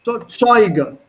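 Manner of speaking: Zeuge with the first syllable ZEU stressed; teacher modelling Zeuge stressed on ZEU. Shown as a demonstration. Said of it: "das liegt auf der ersten Silbe".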